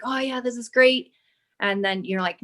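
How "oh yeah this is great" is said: higher-pitched mock excitement; retold burst of enthusiasm; excited. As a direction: imitate your own eager self. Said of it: "I would get excited and be like".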